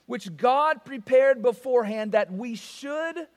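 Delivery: slow, solemn reading of the verses; scripture reading. Acted. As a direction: read the Word with reverence.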